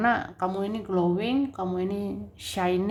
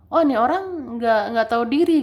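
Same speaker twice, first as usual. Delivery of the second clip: a louder, fed-up burst of indignation; indignant outburst; 2 semitones higher, 5 dB louder than usual. Retold or imitated. Imagining a disrespectful person, a louder indignant outburst. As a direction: spit it out like someone who's been disrespected.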